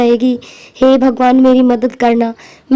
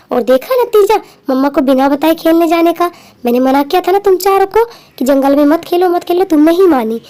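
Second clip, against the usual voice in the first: mildly scolding, pitched higher; scolding mother; 3 semitones higher than usual. Acted. Mother tells child off for playing in the jungle, scolding. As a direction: tell off a child who disobeyed.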